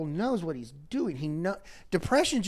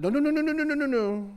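high, louder run of no's cutting him off; firm stop; 12 semitones higher, 3 dB louder, faster than usual. Retold or imitated. Counselor stopping the husband's name calling, loud and high. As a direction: shut it down fast. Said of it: "I said".

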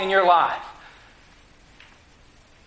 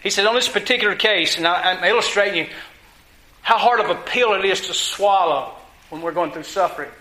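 ordinary delivery

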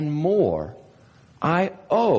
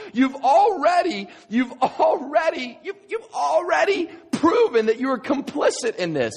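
preaching shout; 11 semitones higher than usual. Real, not acted. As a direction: build to a full preaching shout. Preacher driving home the point.

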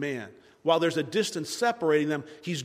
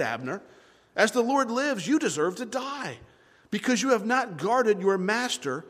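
raised, declaimed accusation; mild yelling; 4 semitones higher than usual. Acted. David rebuking Abner from off in the distance, calling out. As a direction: call out the charge in a higher voice. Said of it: "just yelling these things".

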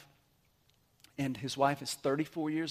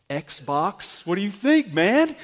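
buddy's voice; 3 semitones higher, 8 dB louder, slower than usual. Retold or imitated. Buddies voiced in retold scene.

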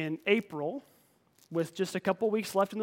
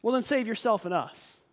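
mocking insult; 5 semitones higher than usual. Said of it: "hurled insults at him".

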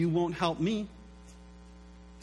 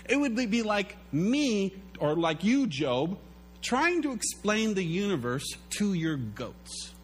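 a hint of a higher, patient God; lightly voiced God; 4 semitones higher than usual. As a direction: explain like God speaking to Job, a touch higher. God voiced explaining to Job.

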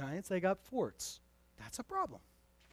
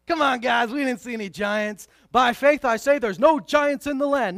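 mock denial; 5 semitones higher, 10 dB louder than usual. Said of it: "No, they didn't do that".

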